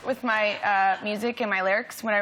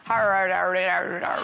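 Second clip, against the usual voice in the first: Geordie imitation; 6 semitones lower than usual. Shown as a demonstration. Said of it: "Geordie lesson".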